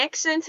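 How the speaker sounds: "accent" slipping out oddly; "accent" with a slipped vowel; slipped pronunciation. Real, not acted. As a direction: let "accent" come out in the weird, accidental way. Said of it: "There, there you go. See that?".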